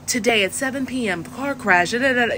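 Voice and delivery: news reader's delivery, lightly imitated; news anchor. Journalism graduate mimicking broadcasters, news anchor voice. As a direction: read it like a TV newscaster. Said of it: "news people all have the same voice".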